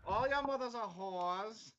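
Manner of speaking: slow, high yelled taunts at goblins; yelled insults. Acted. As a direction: bellow the curses into the cave, drawn out. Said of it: "No, yell it, I wanna hear it".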